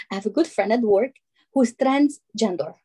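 light Albanian-accented English, imitating mom; a mild take on mom's Albanian accent. Daughter imitates her Albanian mom's accent, lightly. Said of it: "I'm gonna do her accent".

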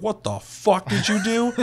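high, drawn-out mock disbelief; stunned, high-pitched retort, half laughing; incredulous outburst. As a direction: imitate everyone's shock, cracking up laughing. Everybody's shocked reaction, breaking into laughter.

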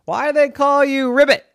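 high, quick piggy voice. A narrator's reading. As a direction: squeal it out like a curious pig. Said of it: "Huxley said to Ribbit".

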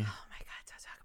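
hushed pleading whisper; whispered plea not to mention a game. Acted. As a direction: whisper it like it's forbidden. Unvoiced whisper.

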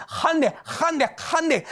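high, urgent retold call; excited calling out. Husband bursting in to call his wife, excited.

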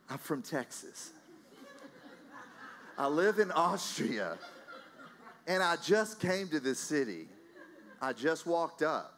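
slow, laughing disbelief; laughing through words. Real, not acted. Preacher tells the lady his story, laughing. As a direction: chuckle through each line.

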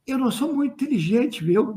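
soft, confiding aside; leaning in to whisper. Real, not acted. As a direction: drop the voice as if telling a secret. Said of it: "Vou falar baixinho".

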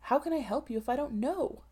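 harsh dry voice. Acted. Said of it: "in a harsh, dry voice".

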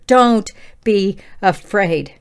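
Don't be afraid drawn out slowly, each word weighed; slow scripture quote. Shown as a demonstration. Quoting Scripture to the listeners, slow and deliberate. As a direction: read it slowly as a verse from Scripture. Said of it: "How many times did he say that in Scripture?".

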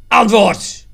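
loud, high furious shout; explosive interrogator's command; threatening demand. A narrator's reading. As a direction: yell a one-word order. Jan threatens barber, demands answer.

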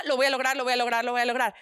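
fast, low repeated pep talk; acted rapid self-encouragement; self-mantra. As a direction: rattle it off to convince yourself. Acts out frantic self-pep-talk.

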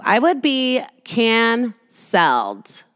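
"I would be canceled" stretched out very slowly, mock doom; drawn-out mock dread. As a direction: drag out "canceled" like a doomed verdict. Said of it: "you think you're so fucking cool".

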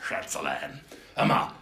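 lightly voiced sleazy charmer; Horst Schlemmer. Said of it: "Hallo, Horst".

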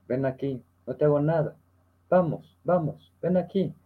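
a lightly voiced tender call to a limping dog; coaxing a dog. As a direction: coax the stray gently closer. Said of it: "le digo".

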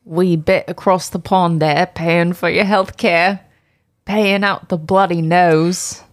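mock British banter accent; put-on British accent. Co-host teasing listeners in the States, put-on British accent. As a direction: rib the Americans in a fake British accent. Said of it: "we were doing British or U K somewhere accents".

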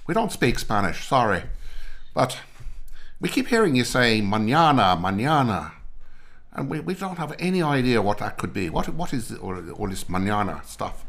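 mock Irish complaint. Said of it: "the Irish turned ... and said".

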